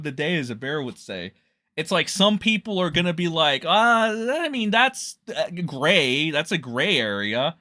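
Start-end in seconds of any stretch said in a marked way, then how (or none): 3.6-7.6 drawn-out, hesitant opening; mildly mocking waffler; imitated hedging. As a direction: stretch the "uh" as if weighing it up.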